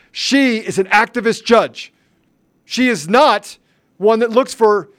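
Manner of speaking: outraged denunciation of the activist judge; angry. Real, not acted. Attacking the judge.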